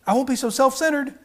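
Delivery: a cat bargaining; lightly mock cat. Cat voice continues.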